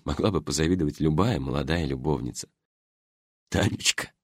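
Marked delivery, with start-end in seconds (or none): 3.5-4.1 put-on beaming old man. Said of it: "просиял старик".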